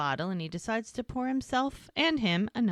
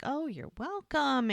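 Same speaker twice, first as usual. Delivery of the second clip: sweet acted reply; 6 semitones higher than usual. He answers her thanks after their date, sweetly. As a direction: draw it out sweetly as in a retold date.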